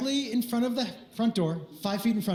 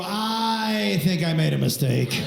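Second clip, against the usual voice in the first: slow, lowered, drawn-out confession; sheepish admission; 5 semitones lower, slower than usual. Retold or imitated. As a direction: own up slowly and reluctantly. Sheepish admission to wife, acted.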